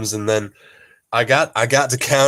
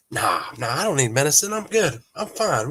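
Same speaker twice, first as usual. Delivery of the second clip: stubborn refusal; 3 semitones higher than usual. Retold or imitated. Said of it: "stubborn husband refusing medicine".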